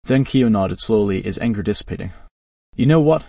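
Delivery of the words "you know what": heavy with emotion. A narrator's reading. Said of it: "his voice heavy with emotion".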